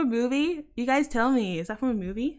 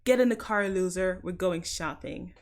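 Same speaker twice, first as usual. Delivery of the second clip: American accent; 3 semitones lower than usual. Shown as a demonstration. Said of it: "Is that from a movie?".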